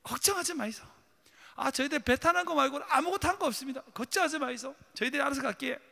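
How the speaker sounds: high, brash Busan-dialect fisherman. Acted. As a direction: boast and reassure in Gyeongsang dialect. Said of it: "부산 사투리로".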